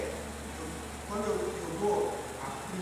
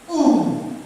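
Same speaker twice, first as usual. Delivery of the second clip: "Um" gritado e agudo; comando gritado; 10 semitones higher, 13 dB louder than usual. Shown as a demonstration. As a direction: solte a contagem com força. Demonstra comando de contagem. (voz de comando, bem forte)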